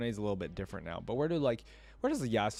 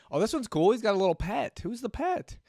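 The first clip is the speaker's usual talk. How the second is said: excited; 12 semitones higher, 6 dB louder than usual. Real, not acted. Delighted by a new skin.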